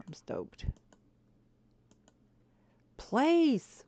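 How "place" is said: much higher, louder snap at the game; real irritated outburst; frustrated command. Real, not acted. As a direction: order the game to obey. Game won't place item.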